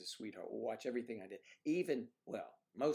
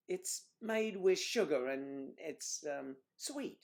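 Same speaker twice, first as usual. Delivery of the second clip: playacted explanation; 5 semitones higher, 4 dB louder, slower than usual. Mock dialogue about sweets.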